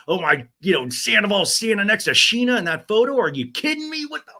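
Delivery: high, loud outraged disbelief; shocked disbelief. Retold or imitated. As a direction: squeal it in disbelief. Acting out own outraged reaction.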